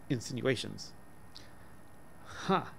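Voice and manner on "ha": soft, high mock-tragic gasp; a child's gasp of dread, hammed-up; a breathy little gasp, half-afraid; hushed tragic gasp. A narrator's reading. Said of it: "gasped Charlie boy in a hushed but tragic tone".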